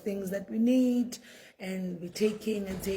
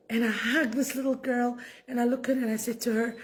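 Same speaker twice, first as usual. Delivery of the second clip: real tearful catch, higher voice; close to tears; 4 semitones higher, faster than usual. Real, not acted. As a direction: voice rising as tears well up. Recalls hugging girl, cry heard.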